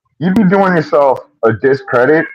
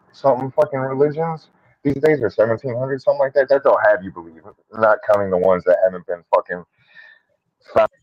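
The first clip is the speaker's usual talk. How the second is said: choppy cut off endings; 5 dB quieter than usual. Real, not acted. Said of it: "You're cutting out".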